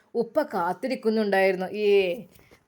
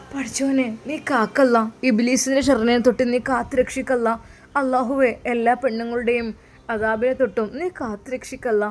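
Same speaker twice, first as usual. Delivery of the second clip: pleading to God, a touch raised and urgent; heartbroken prayer. Acted. Wife praying to God for her husband, heartbroken pleading. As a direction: beg for protection with a breaking heart. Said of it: "ഹൃദയം പൊട്ടി ദുആ ചെയ്തു".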